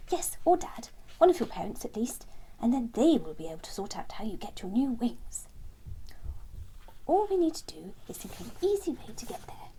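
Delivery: a touch of brisk encouragement; Sam reassuring. Acted. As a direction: set out the plan with confidence. Sam encourages the little ones.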